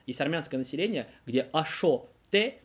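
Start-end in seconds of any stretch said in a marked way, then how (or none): 1.5-2.6 put-on "ашо-те" slowly, with an Armenian-accented o. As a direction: imitate an Armenian learner saying "ашо-те". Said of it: "это я им привет сейчас постарался передать".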